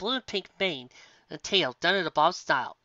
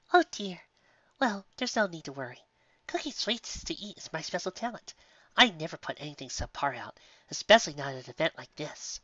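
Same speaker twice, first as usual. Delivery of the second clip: sweet baker mare; 2 semitones higher than usual. Acted. Sweetie reassures Twilight.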